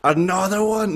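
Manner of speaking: high mock-reluctant questioning, first word loud; imitated hesitation. Host teasing a hesitant dad, mock reluctance. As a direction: play up someone balking at the idea. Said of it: "hear the hesitation in Casey's voice".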